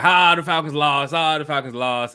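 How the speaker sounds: loud sing-song teasing; mocking taunt. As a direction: rub the loss in.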